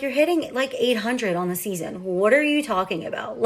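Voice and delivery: mock disbelief at a silly excuse; incredulous. Parents incredulous at son's excuse.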